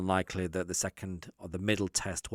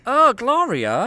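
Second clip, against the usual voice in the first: slow, much higher and louder swoon; 13 dB louder, much slower than usual. Pretend. Will swooning over Jack's muscles, a hammed-up slow squeal. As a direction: melt over his muscles out loud.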